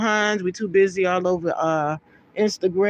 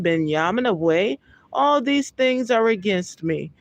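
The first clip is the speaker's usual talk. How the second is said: raised, measured Bible reading voice; scripture reading; 3 semitones higher than usual. Acted. Preacher reading Genesis aloud to his listeners, solemn. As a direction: read the verse out with solemn weight.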